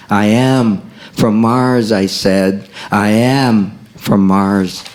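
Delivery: poem reading. Acted. Poet reciting I Am From Mars, spoken word.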